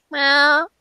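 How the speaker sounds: high rising cat meow; nervous cat voice. Retold or imitated. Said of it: "then we start hearing".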